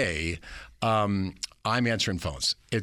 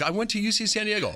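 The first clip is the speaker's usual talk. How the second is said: put-on young intern; 12 semitones higher than usual. His young self answering Cronkite.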